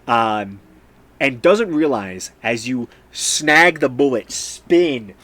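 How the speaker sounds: animated, punchy combat narration; game master's scene setting. Acted. Game master describing the shot to a player, animated narration. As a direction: narrate the action with emphatic force.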